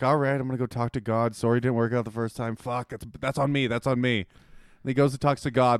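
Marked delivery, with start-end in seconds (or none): 0.0-4.2 low, offhand shrug of an apology; mumble-soft, easygoing everyman; casual Balaam. Acted. Balaam reporting back after talking to God, casual. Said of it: "there's no way this is Balaam".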